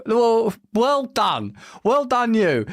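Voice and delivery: slow, dry mock praise; sarcastic well done. Real, not acted. Host sarcastically praising the scientists, slow and dry. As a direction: drag out the fake congratulations. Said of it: "sarcastic praise".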